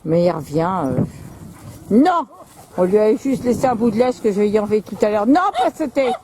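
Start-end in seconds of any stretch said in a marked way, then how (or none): 1.9-2.3 sharp no. Real, not acted. Dog about to jump. 5.3-6.1 sharp command. Real, not acted. Dog about to jump.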